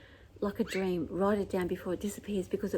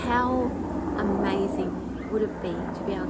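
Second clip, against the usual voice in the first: raised voice, still over the noise; yelling over helicopter; 6 dB louder than usual. Real, not acted. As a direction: keep projecting over the helicopter. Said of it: "Sorry about the helicopter".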